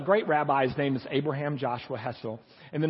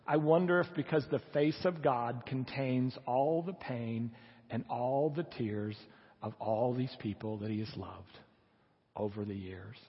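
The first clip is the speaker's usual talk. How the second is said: sombre reflection; 4 semitones lower, 5 dB quieter than usual. Acted. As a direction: let it sink gently, phrase by phrase. Solemn quote about God's pain.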